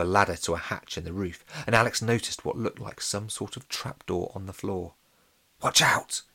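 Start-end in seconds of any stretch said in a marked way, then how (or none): 5.6-6.2 urgent half-whispered warning; hushed but forceful heads-up. A narrator's reading. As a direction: hiss a warning to a friend, not fully whispered. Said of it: "he whispered to Lola".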